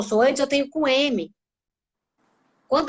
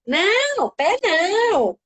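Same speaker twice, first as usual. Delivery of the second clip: put-on high, drawn-out child's protest; three-year-old refusing; 8 semitones higher, much slower than usual. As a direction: play a toddler saying no, stretching the last word. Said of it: "criança de três anos já tá dizendo".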